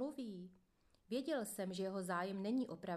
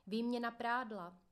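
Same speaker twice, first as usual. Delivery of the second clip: mild mock yell; 3 semitones higher, 4 dB louder than usual. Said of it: "rozléhá se křik".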